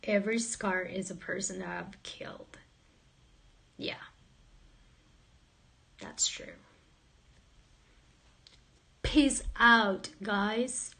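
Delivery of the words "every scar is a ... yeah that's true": whispered joke confession; mock sinister whisper. Streamer jokingly confesses gang past, whispering. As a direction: hush it like a dark secret.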